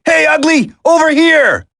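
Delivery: calling out. Acted. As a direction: shout to pull his attention.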